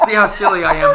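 high, loud words bursting through laughter; cracking up while talking; helpless laughter. Real, not acted. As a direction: laugh hard at your own silly slip. Laughing fit over own mistake.

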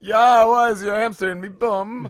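put-on British accent.

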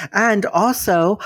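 ordinary talk, nothing marked

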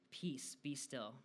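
slow, lightly acted drowsy command; half asleep. Sleepy Jesus to the storm, mildly groggy. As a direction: say it slowly, as if barely awake. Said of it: "still somewhat asleep, like, walking out".

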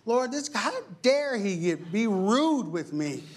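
high, slow, offended whine; mock outrage at the ungrateful man; indignant complaint to God. Preacher retelling his prayer, high offended whine. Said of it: "I'm like".

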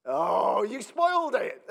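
high, laughing protest that someone spoiled it. Real, not acted. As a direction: laugh it off as someone jumps the punchline. Congregation member spoils the joke.

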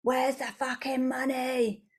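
mock whine about money; frustrated demand. Woman stuck asking the universe for money, frustrated demand. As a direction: put on an impatient complaint. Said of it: "if we're at that place of".

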